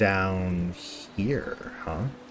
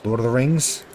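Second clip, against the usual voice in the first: dramatic narration. Acted. Reads the game's intro narration.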